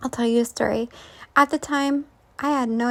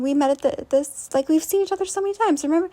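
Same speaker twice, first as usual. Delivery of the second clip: imitating stranger; 3 semitones higher, faster than usual. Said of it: "she's just going on and on".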